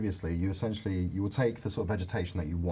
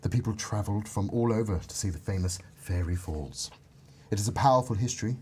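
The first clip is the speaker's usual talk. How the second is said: fairy voice. Pretend. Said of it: "So I want you to do a fairy voice".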